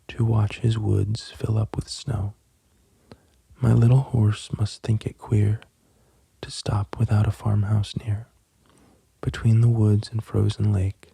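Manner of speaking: soothing bedtime poetry reading; poem reading. Real, not acted. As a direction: read the verse gently, pausing after each line. Reads a poem for bedtime listeners.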